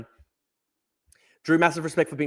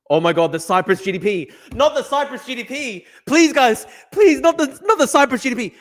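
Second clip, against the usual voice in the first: whiny high mock plea, much higher and louder; mock pleading; 8 semitones higher, 6 dB louder than usual. Streamer mocks those worried about Cyprus GDP, whiny mock plea. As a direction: beg in a sarcastic, pitiful wail. Mocking pro-Russian GDP complaint.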